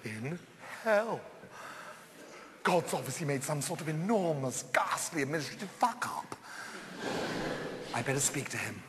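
despairing murmur. Acted. Despairing in hell.

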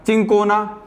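चिंकोना with a hard च at the start; pronunciation variant. Shown as a demonstration. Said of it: "कुछ लोग पढ़ेंगे". (च से चिंकोना बोलना)

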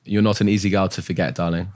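smooth line in a natural British accent. Shown as a demonstration. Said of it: "can you say it really quick".

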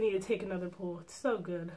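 mouthpiece touching lips; speaking around pipe tip; talking with hookah tip at lips. Real, not acted. Seen 0: tip rises from chin to touching lips while talking.

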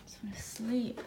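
exhausted, whispered; tired whisper. Real, not acted. Exhausted bride at two a.m., whispering. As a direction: sigh it out in a whisper.

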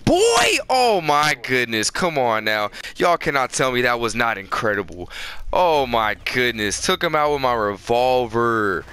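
excited hype. Real, not acted. Gamer hyping his kill to viewers, excited boasting. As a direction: crow over an incredible play. Celebrates big kill in game.

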